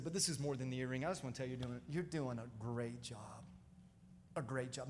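low, soft and tender reassurance; gentle encouragement. Retold or imitated. Retelling his encouragement to the mother.

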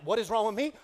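hammed-up desperate shouting at his wife; frantic rant. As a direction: rant in mock panic about money. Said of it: "I'm like".

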